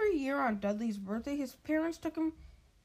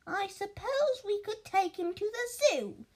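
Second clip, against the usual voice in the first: slow, higher, reluctant musing; higher, slow reluctant aunt; slowly; 8 semitones higher, 3 dB louder, slower than usual. Acted. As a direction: draw it out, thinking aloud grudgingly. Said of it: "said Aunt Petunia slowly".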